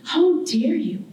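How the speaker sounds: "How dare you" with a lightly lifted, haughty "How" and a falling end; a proud homeland looking down on its child; graceful, condescending island. Acted. Barbados as a person scolding the artist who left, mild haughty tone. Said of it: "very graceful, but yet condescending".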